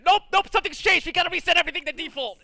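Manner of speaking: high, loud, fast mock robot voice; mocking computer voice. Streamer mocking her computer for resetting settings, mock robotic voice. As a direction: mimic a smug computer resetting everything. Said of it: "my computer's like".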